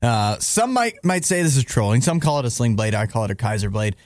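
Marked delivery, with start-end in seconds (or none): 2.0-4.0 low, offhand movie quote; casual throwaway line, pitched down; quick, nonchalant. Acted. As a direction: toss it off nonchalantly. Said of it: "so quickly and, like, so nonchalantly".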